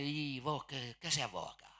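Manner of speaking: Buenos Aires accent, a mock scolding challenge; porteño challenge. Preacher imitating a porteño challenging a visitor. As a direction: toss it off like a Buenos Aires local picking a fight. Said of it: "como que te estuvieran retando".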